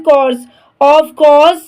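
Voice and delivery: slow, drawn-out teacher model of the phrase; careful dictation pace; slow model reading. Shown as a demonstration. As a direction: stretch each word out for the learner. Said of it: "teacher models word slowly".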